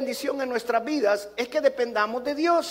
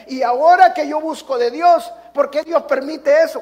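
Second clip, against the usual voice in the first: queja; 4 semitones higher, 8 dB louder than usual. Acted. Imita la queja del rey.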